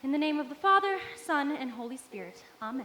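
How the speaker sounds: hushed personal prayer to God. Acted.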